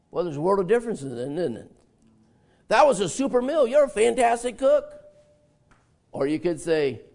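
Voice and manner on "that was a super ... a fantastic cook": mock praise. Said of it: "these things could hurt".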